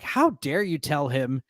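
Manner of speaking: slow, drawn-out mock indignation; a touch of wounded theatrical anger; mock outrage. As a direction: stretch out each hurt word, hammed-up. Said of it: "Morwood gets really upset is like".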